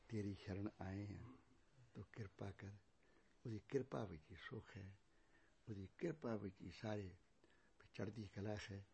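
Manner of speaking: soft, near-whispered plea, ਕਿਰਪਾ almost breathed; hushed prayer. Real, not acted. Preacher softly praying for grace for the congregation, hushed. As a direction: drop to a prayerful hush.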